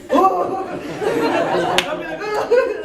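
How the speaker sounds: high-pitched reenacted "whoa" of surprise; mock shocked. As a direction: act out a startled reaction, amused. Mock shock at seeing guy.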